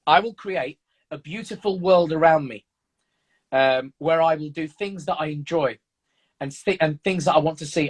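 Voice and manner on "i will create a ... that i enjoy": reading aloud. Real, not acted. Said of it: "happy to read just one line".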